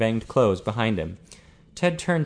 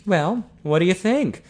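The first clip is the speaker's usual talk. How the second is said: higher, eager prompt; urging; 8 semitones higher, 4 dB louder than usual. A narrator's reading. Ian urging Ted to judge his remodelling, eager. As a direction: press for an opinion with lifted pitch. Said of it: "urged Ian".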